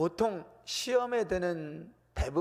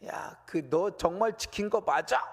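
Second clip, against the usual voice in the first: pressing; 2 semitones higher than usual. Retold or imitated. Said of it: "이렇게 막 다그치는 게 아니라".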